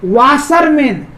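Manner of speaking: वाशरमैन slowly, in measured beats; split into syllables. Shown as a demonstration. Teacher showing it divides in three, split into syllables. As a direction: draw out वाशरमैन as वा, शर, मैन. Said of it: "तीन syllable में बंट रहा है".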